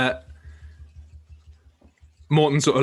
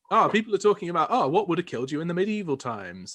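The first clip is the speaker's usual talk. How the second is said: mocking tweet voice; 5 semitones higher, faster than usual. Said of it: "great tweet today that was like".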